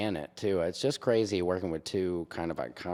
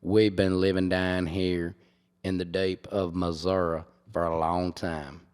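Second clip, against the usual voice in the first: put-on white Southern accent; 2 semitones lower than usual. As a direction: draw it out like a white Southern man. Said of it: "I can do white, white Southern man".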